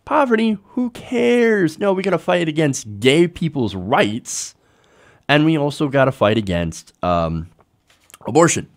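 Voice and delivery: mocking religious right. Vlogger mocking the moral majority, high sneering mock. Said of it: "these are the people that are like".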